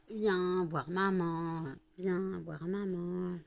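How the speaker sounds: very slow coaxing call; coaxing the cat. Real, not acted. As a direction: draw it out gently to the cat.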